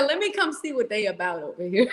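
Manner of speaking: quick, laughing through a male viewer's line; laughing quote. Retold or imitated. Host quoting a viewer who joined the ladies, laughing. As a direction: tell his words while cracking up.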